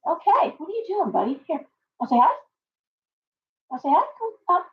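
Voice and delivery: high, sing-song coaxing of a pet bird. Real, not acted. Streamer coaxes her bird onto her hand, high cooing baby talk.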